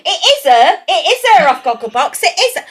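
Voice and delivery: high, loud, insistent imitation; excited onlooker talking as if she's deaf; loud aside. Onlooker in the queue recognising her, loud high insistence. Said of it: "They think you're deaf as well".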